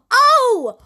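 a sudden high startled oh; surprised oh. Real, not acted. Player startled as the garage door shoves the car: sudden high oh. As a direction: caught off guard by the moving car.

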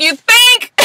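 sarcastic. Retold or imitated. Sarcastic reply to mom.

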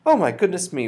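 high, loud exclamation; high-pitched happy outcry; crying out. A narrator's reading. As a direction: exclaim it with delight. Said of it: "she cried".

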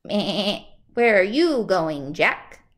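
loud bleating goat. Acted. Goat character speaking.

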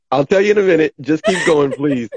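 high, fast giggly talk; laughing while talking. Real, not acted. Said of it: "What are you laughing about".

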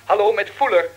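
over a crackling phone line; phone call. Acted. Reporter calling the studio by phone, loud and clear.

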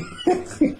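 very high breathy giggle; high laughter. Real, not acted. Laughing at his juicing line, high giggle. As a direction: burst out giggling.

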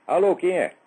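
loud hello into a bad phone line; to someone hard of hearing. Real, not acted. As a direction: call out loudly down the phone. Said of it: "Esse telefone tá horroroso".

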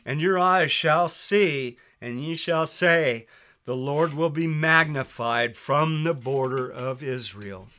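scripture reading. Acted. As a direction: proclaim the verses like a preacher. Preacher reading scripture aloud.

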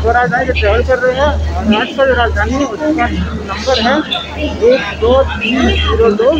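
muffled behind cloth mask; speaking with mouth covered; tags: through a face mask. Real, not acted. Seen 1: Grey cloth mask covers the speaker's mouth and nose throughout; no mask in R frames.

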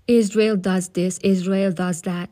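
light mocking Arabic accent on "Israel"; father mocking Arabs in a faint Arabic accent. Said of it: "in a mock Arabic accent".

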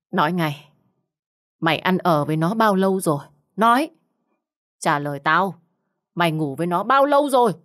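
shouting in her face. Acted. Husband yelling in his wife's face, furious. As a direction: yell the questions right into her face. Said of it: "Cậu Lý hét vào mặt của Lượm".

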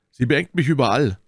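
put-on high, emphatic young musketeer; D'Artagnan. A narrator's reading. D'Artagnan adds his word on milady, high and emphatic. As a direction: chime in pitched well up.

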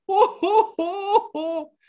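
high hammed-up fake sobbing; theatrical mock weeping; mock crying. Shown as a demonstration. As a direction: pretend to cry for the kids. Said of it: "Hagamos todos como si estuviéramos llorando".

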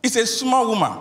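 put-on very high, strained voice of a spirit speaking through the girl; possessed woman's voice. Spirit in the girl defies the pharmacist, very high strained voice. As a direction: shriek it out as the spirit inside her. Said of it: "she said".

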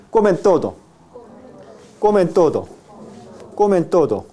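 n of "comen" made on the upper teeth; dental n. Shown as a demonstration. Teacher models for class to repeat, dental n. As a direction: link "comen" to "todo" with a dental n. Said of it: "ápico dental también".

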